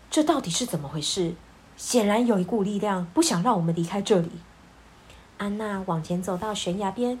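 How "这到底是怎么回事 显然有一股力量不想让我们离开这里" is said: put-on puzzled young man. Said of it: "阿克一脸疑惑地说".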